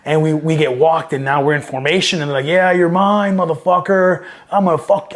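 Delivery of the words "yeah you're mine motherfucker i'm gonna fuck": higher-pitched mock threat; retold yelling taunt. Marines taunting new guys in formation, mock yell. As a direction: imitate someone yelling threats, not at full volume. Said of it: "start yelling and cussing at us".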